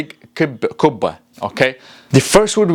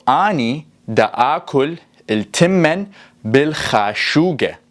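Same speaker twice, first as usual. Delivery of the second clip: Iraqi Arabic accent. Shown as a demonstration. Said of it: "this is in the Iraqi dialect".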